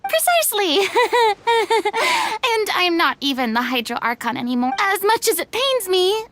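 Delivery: smug bluff opening high with a laugh. Acted. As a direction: crow it grandly, laughing smugly. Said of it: "That sounded so smug".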